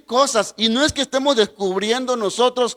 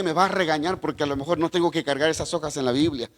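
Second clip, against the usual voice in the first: lightly acted worry, hushed and hurried; a little scared; 4 semitones lower than usual. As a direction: mutter it like a nervous kid expecting a scolding. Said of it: "un poquito asustado dije".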